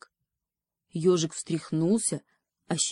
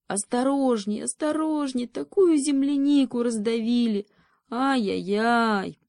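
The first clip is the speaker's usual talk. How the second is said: put-on higher, fretful old-fellow voice; high fussy hedgehog; 5 semitones higher than usual. Ёжик спросонья причитает над земляникой. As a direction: fuss and tut as if just woken. Sleepy hedgehog grumbles, waking.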